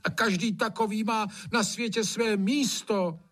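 high, slowing, sing-song plea; pleading gamekeeper. Acted. Hajný pleading that frogs have their place. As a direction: coax the master gently.

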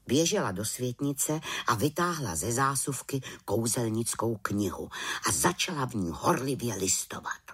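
ordinary delivery

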